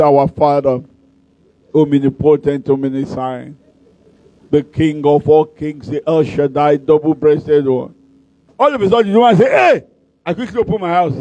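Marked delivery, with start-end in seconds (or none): 0.0-7.9 lower, slow pompous prayer voice; long ornate prayer. Retold or imitated. Preacher mocking his own long prayer with lower pompous voice. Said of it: "we have style". 9.5-9.8 sudden cry. Retold or imitated. Woman cries out suddenly.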